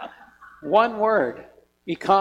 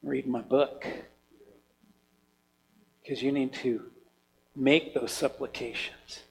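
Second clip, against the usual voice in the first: voice of God; 7 semitones lower, 8 dB quieter than usual. Retold or imitated. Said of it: "God saying".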